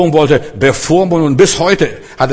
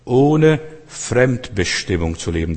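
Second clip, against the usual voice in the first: slow, deliberate delivery of "Ohne Fremdbestimmung zu leben"; slow emphatic repetition; slower than usual. Real, not acted. Preacher defining freedom for the congregation, "Ohne Fremdbestimmung" slowly spelled out. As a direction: stretch out "Ohne Fremdbestimmung", word by word.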